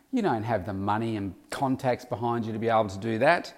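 a harsh inner voice putting you down; inner critic. Pretend. Voicing the inner critic again.

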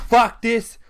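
new Nintendo boss on a Direct, mock shouting; mock outburst. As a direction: blurt it out like a fed-up boss quitting. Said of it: "Doug Bowser's gonna say".

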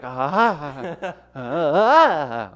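mock grunts. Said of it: "the only noise he could make".

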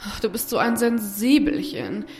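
lightly voiced scolding sister; a hint of a condescending older sister; bossy big sister. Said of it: "die Stimme seiner großen Schwester Carla".

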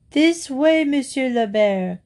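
high opening call to a rider; urgent cry. A narrator's reading. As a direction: call out to steer someone in. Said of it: "he cried".

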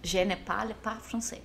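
"Je ne parle pas français" slowly, word by word. Shown as a demonstration. Repeating for a puzzled friend her line to customers, slow. Repeats it after being asked "Como?.

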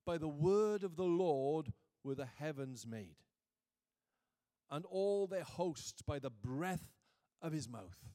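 slow, weighty reading aloud; scripture reading. Real, not acted. Preacher reading Psalm thirty-three to the congregation, slow and emphatic. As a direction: measure out each phrase of the verse.

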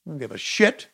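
normal talking voice

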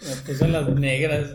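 quoting the friend. Retold or imitated.

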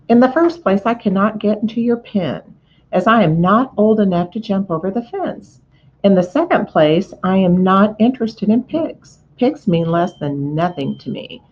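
a lightly voiced haughty lamb; snooty lamb. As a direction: look down on the pig, lecture him.

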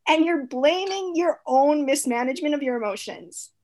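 mildly outraged, hammering home how wronged she was; indignant on friend's behalf. Retold or imitated. Friend scolding her self-blaming friend, indignant.

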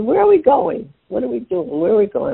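high, eager, rapid-fire questions in the car; excited questions. Retold or imitated. Mom asks her sons where they're going, excited. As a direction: pester them like a thrilled kid. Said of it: "I'm so excited".

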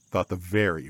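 usual speaking voice

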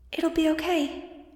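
put-on high, slow child's voice; little girl voice. A narrator's reading. Angel reassuring Max before she's gone, high and slow. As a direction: sound like a small comforting girl. Angel's remembered last words.

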